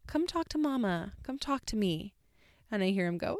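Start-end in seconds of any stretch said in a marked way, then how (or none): 0.1-2.2 calling out. Retold or imitated. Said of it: "I cried out".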